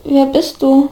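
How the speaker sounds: halting, unsure apology; timid, broken-up question; hesitant murmur. A narrator's reading. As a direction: feel your way into the question with pauses. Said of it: "murmelte Oliver schließlich leise".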